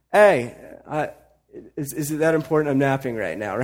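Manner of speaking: sleepy Jesus. Retold or imitated. Jesus woken on the boat.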